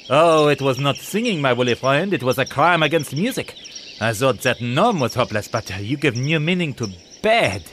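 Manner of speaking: snooty pelican. Acted. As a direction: look down your beak at him. Pierre mocking Barney.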